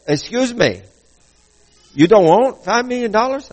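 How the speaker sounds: imitated Asian-sounding caller, rising in pitch; mock Asian-sounding accent, questioning. Prize caller questioning the refusal, imitated Asian-sounding accent. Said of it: "has an Asian-sounding accent".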